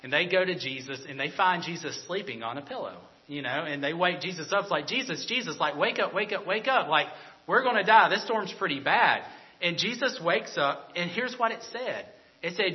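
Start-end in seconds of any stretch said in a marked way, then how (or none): 4.9-9.2 mildly panicked retelling, pitch lifting; panicky disciples. Retold or imitated. Disciples waking Jesus in the storm, mock panic. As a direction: imitate frightened men urging a sleeper awake. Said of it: "the disciples are freaking out".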